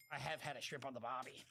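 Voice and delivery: put-on a faint, half-hearted try at an Australian accent; barely-there mock Australian accent, almost his own voice; bad Australian accent. To Australian fans, a feeble Australian accent. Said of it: "that's not a very good Australian accent".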